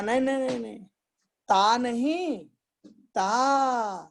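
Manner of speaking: imitating a lisping teacher correcting pupils; mock emotional insistence. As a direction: act out an earnest lisping teacher. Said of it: "बड़े भाव में आकर के".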